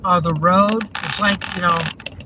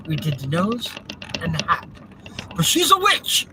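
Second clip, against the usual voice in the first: Monty Python villager quote. Retold or imitated. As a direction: squeal "witch" like a silly villager. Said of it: "that's from, Monty Python's Flying Circus".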